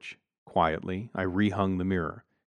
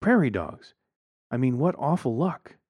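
higher-pitched wife, mildly amazed; wife's exclamation; 5 semitones higher than usual. A narrator's reading. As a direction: marvel at the neighbor's bad luck. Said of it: "Lisa exclaimed".

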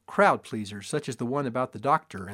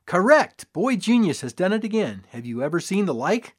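loud, higher triumphant boom; booming showman; 5 semitones higher, 5 dB louder than usual. A narrator's reading. Father booms his son's success to crowd. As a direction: boom it across the square. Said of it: "and boomed".

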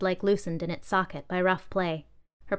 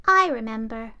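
high, louder, hesitant I remember; hesitant doll; 5 semitones higher, 5 dB louder than usual. Acted. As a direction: doll unsure of her memory, high and hesitant. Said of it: "the doll said hesitantly".

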